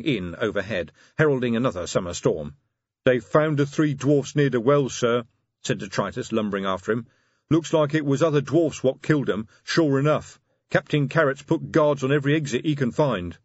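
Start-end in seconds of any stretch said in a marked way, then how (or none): 3.0-13.4 lightly voiced troll sergeant. Detritus voiced in story.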